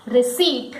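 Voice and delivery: "receipt" as rih-SEET; silent P. Shown as a demonstration. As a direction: say "receipt" with no P sound. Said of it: "The correct pronunciation".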